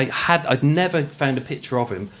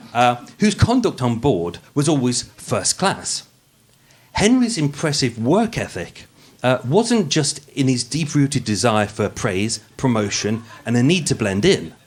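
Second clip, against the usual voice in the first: posh podcast voice. Acted. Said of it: "the podcast voice".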